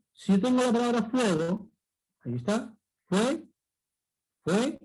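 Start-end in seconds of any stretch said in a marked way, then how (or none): 3.1-4.8 "fue" as one syllable, U gliding into E; diphthong demo. Shown as a demonstration. Teacher shows two vowels in one syllable, isolated "fue". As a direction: say "fue" by itself, both vowels in one beat. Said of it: "estoy pronunciando dos vocales".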